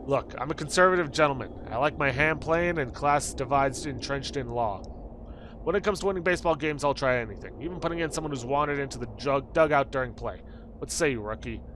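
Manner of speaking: lightly voiced, emphatic old-time coach; a hint of a pompous team coach; baseball coach. Coach recruiting a wandered-in rookie, lightly voiced baseball coach.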